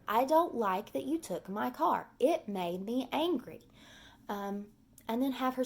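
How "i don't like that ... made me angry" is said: put-on child modelling words. Shown as a demonstration. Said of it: "Tell him".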